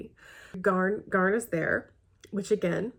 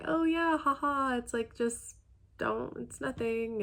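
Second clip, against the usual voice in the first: mock-casual deflection, pitched up; awkward brush-off; 5 semitones higher, slower than usual. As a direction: imitate someone nervously laughing it off. Character awkwardly laughing off a remark.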